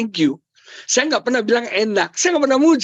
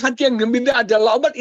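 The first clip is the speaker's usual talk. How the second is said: higher, hurried repeat of the caption; quick recap; 4 semitones higher, faster than usual. Retold or imitated. Preacher recapping his caption to wife, quick recap. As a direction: rattle the quote off quickly.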